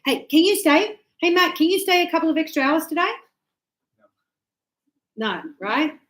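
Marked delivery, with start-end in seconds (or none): 0.0-3.1 higher, louder, fast hey can you stay; demanding boss. Retold or imitated. Boss telling Matt to stay extra hours, demanding. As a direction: rattle it off like a pushy boss. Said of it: "We say".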